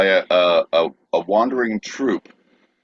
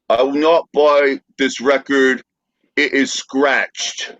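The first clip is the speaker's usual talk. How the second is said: mock Cockney; 4 semitones higher, much slower than usual. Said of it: "Decipher That Cockney Slang".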